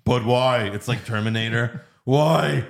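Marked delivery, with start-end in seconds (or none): 0.0-0.6 mock whiny Batmobile. Batmobile voiced as a whiny child. 2.0-2.7 loud, higher pestering Why?; whiny car voice. Pretend. The Batmobile pestering Batman, loud, higher and whiny.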